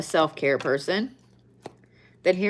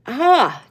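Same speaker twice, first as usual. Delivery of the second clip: yawn; 7 semitones higher, 6 dB louder than usual. Real, not acted. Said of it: "That's my fourth yawn".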